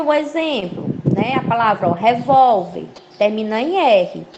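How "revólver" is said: "revólver" with the middle syllable leaned on; stress on VÓL. Shown as a demonstration. Teacher giving a paroxytone example, "vól" stressed in "revólver". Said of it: "Ela é uma paroxítona".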